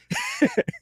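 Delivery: laughing at his own punchline; high laugh. Real, not acted. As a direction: squeal with laughter.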